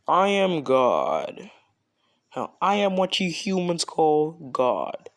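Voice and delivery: lightly voiced almighty god; grand god voice. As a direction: announce yourself as a mighty deity. God introduces himself.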